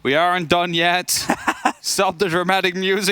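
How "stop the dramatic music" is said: laughing through the words. Real, not acted. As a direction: say it while cracking up. Laughing after clutch.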